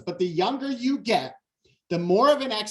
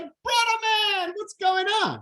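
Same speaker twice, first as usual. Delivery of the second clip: laid-back surfer greeting. Retold or imitated. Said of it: "he's like".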